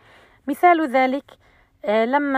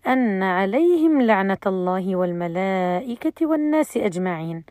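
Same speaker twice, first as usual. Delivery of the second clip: measured recitation carrying on past عليهم; Quranic recitation, full verse; 2 semitones lower than usual. Shown as a demonstration. Teacher shows students the correct way to join the verse, measured recitation. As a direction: recite أن عليهم لعنة الله straight through without a break, fading on أجمعين. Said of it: "يجب أن تقول".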